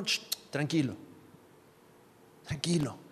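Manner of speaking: soft, soothing shush; hushing. Acted. God calming a protesting believer, soft hushing. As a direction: quieten an upset child, keeping it soft.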